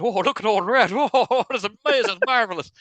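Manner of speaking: posh impressed lord. Retold or imitated. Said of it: "Lord Reddy went".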